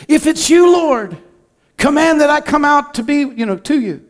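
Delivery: high, eager calling out to the Lord; a bold, excited plea from the boat; eager Peter. Retold or imitated. Peter eagerly calls to Jesus on the water, high and excited.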